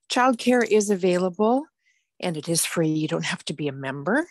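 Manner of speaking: out of breath from the stairs; breathless, gasping between phrases. Real, not acted. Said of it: "I'm out of breath. Just ran up the stairs".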